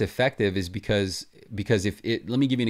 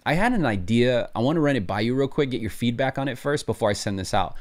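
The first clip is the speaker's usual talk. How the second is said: casual friendly pitch; 2 semitones higher than usual. Shown as a demonstration. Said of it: "the same idea happens when you say".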